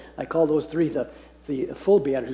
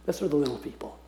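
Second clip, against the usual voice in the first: soft repeat; 8 dB quieter, faster than usual. Shown as a demonstration. Preacher softly repeats his translation of the meek to the class. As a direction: repeat it quietly so it sinks in. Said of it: "That's how I translate the Old English word meek".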